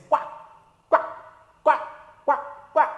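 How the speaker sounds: duck quacking. Shown as a demonstration. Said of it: "a duck says".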